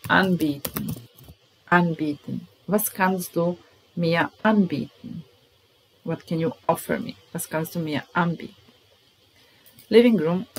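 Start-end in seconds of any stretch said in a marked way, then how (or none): 2.7-5.2 model sentence. Shown as a demonstration. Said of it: "teacher models sentence". 7.3-8.5 quicker, softer repeat; natural speed repeat; repeat at pace. Shown as a demonstration. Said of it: "teacher repeats faster".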